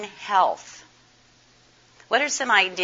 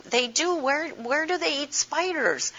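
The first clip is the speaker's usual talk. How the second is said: put-on surprised child; 7 semitones higher, 3 dB quieter than usual. Granddaughter asks about eating spiders.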